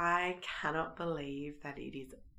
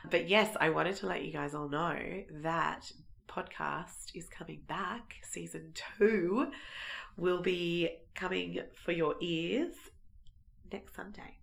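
croaky voice. Real, not acted. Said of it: "bear with the croaky voice".

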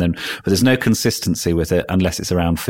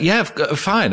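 flustered reply; 10 semitones higher than usual. Retold or imitated. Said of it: "I was like".

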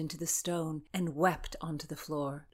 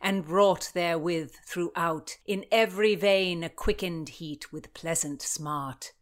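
louder, measured poem recital; reading verse aloud; 6 dB louder than usual. A narrator's reading. Constance reading the poem on the page, reciting aloud. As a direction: recite the verse with weight on each line. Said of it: "She read".

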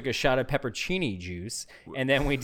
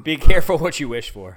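ominous voice; 10 dB louder than usual. Acted. Ominous reply to dark room.

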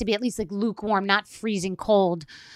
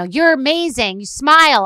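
gushing; 5 semitones higher, 8 dB louder than usual. Retold or imitated. Reads out gushing lunchbox notes.

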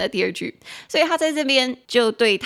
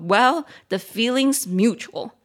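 petty retort; 3 dB louder, slower than usual. Retold or imitated. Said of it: "大人有时候很幼稚".

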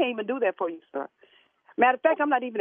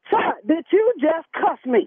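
offended; 2 semitones higher, 5 dB louder, slower than usual. Acted. Offended woman confronts cursing caller.

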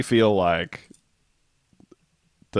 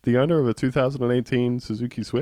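wedding announcement; faster than usual. Retold or imitated. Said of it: "someone at the wedding saying".

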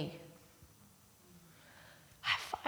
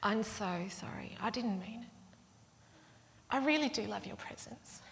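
put-on soft little-kid pleading, rising higher; apologetic child; 3 semitones higher, 5 dB quieter than usual. Four-year-old making up with the aunt, meekly sorry. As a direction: imitate a small child's hushed contrition. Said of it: "out comes this little four-year-old".

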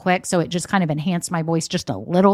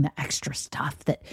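whisper; 5 semitones lower, 12 dB quieter than usual. Real, not acted. Drops into a sudden aside.

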